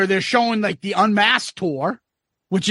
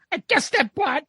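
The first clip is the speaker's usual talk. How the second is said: Ace voice; 5 semitones higher than usual. Retold or imitated. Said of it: "then they asked Ace".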